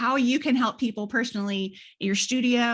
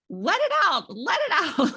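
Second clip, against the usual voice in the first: higher, lightly voiced soothing coax; coaxing therapist; 9 semitones higher, 3 dB louder than usual. Therapist coaxing a crying patient, lightly imitated high coax. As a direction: urge her to let the tears out. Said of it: "and she's like".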